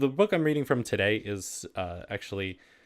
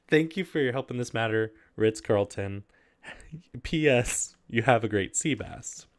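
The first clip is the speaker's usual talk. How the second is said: raised, overly proper read-aloud voice; letter reading voice. Acted. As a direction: read it like a prim formal letter. Reads letter closing.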